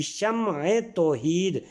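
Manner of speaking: slow "شمع توحید" as sham-e tau-heed; careful pronunciation. Shown as a demonstration. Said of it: "عین کے نیچے زیر آئے گی".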